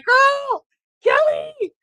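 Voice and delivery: put-on very high, loud squeal of "Girl, Kelly!"; thrilled shout. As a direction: shriek her name with joy. Fan greeting wrestler's return.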